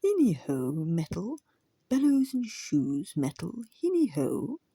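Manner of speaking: loud whinnying hail; eager neighing call. Acted. Pony hailing the smithy dog with eager neighs. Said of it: "hailed the smithy with eager neighings".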